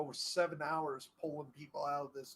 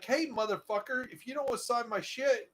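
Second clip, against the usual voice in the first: higher, mock angry yell at a stranger; retold angry yell; 7 semitones higher, 4 dB louder than usual. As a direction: imitate the man yelling at him. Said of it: "he's yelling at him".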